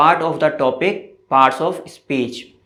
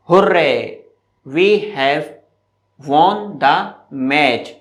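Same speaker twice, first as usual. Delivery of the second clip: mild mock cheer; much slower than usual. Shown as a demonstration. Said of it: "जब आप कोई match वगैरह जीतते हैं तो एकदम से चिल्लाते हैं ना".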